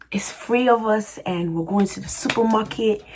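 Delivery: lightly put-on British accent; tentative London-style British accent; UK accent attempt. Shown as a demonstration. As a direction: try a casual UK accent. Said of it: "let me do my best U K accent".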